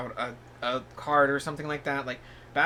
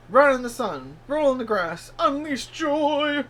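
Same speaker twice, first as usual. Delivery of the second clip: excited dog voice; 10 semitones higher, 7 dB louder, slower than usual. Pretend. Voicing the pizza dog's advice.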